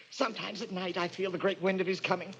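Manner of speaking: hushed dread. Acted. Quentin confessing to Kate, soft and afraid. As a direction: let the fear creep in quietly. Killer confesses fear of god.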